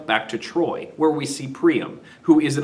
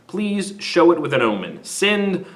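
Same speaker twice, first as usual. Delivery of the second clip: prayer. Retold or imitated. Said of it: "and he prays".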